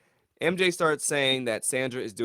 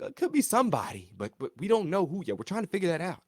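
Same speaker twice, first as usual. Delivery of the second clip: mock evasive reply; 7 semitones higher, faster than usual. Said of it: "They're like".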